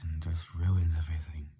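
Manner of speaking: sharp whistling s sounds. Shown as a demonstration. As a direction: let the s hiss and whistle. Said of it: "when I get a sharp S".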